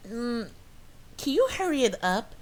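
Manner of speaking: high-pitched mimicry of a nagging customer; mock her impatience, voice pitched right up; impatient Karen. Customer rushing the cashier at bagging, impatient. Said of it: "she's just like".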